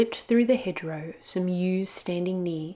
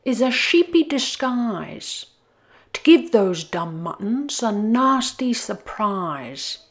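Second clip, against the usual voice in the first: grumbling wolf; 3 semitones higher, 5 dB louder, slower than usual. Acted. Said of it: "grumbled Lou".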